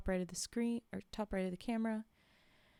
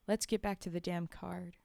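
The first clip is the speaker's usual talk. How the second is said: irritated and resigned; 2 semitones lower than usual. Acted. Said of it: "irritated r-, and resigned".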